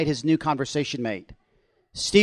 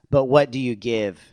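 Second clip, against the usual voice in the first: lower, pointed question; pointed challenge; 4 semitones lower than usual. A narrator's reading. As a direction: lean in and needle him. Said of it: "squinted, pointed at Stephen's chest".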